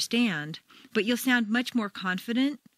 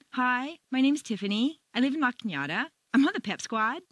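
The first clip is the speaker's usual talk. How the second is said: put-on higher-pitched teen with rising phrase ends; teenage mall girl; 4 semitones higher than usual. Shown as a demonstration. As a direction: make every statement climb like a question, mall-teen style. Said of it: "uses rising staircases, generally teenagers on their way to the shopping mall".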